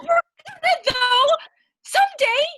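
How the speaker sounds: squeaky insistence. Acted. Defensive insistence.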